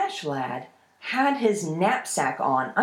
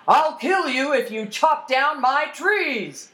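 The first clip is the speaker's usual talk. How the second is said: high, slow, threatening troll yell; 7 semitones higher, 4 dB louder than usual. Acted. Troll threatens a boy chopping his trees, yelling. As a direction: draw out the threat as an angry troll. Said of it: "and yelled".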